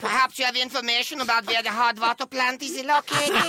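put-on high-pitched comic German accent; broad German accent. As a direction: do a hammed-up old-movie German. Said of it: "super broad nineteen fifty-two style German accent".

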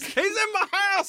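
high mock yell back; shouting match. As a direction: echo it in a high playful shout. Playful back-and-forth bit.

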